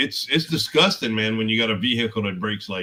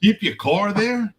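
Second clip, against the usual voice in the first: much higher, slow, disbelieving; incredulous question; 10 semitones higher than usual. Real, not acted. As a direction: stretch it out in disbelief. Disbelief at Boston shop fees.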